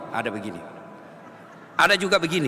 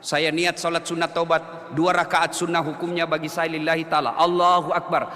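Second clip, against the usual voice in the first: lower, measured Arabic prayer recital; reciting the Arabic intention; 10 semitones lower, 4 dB quieter than usual. Shown as a demonstration. Preacher demonstrates the Arabic intention for the congregation. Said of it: "bahasa Indonesia saja".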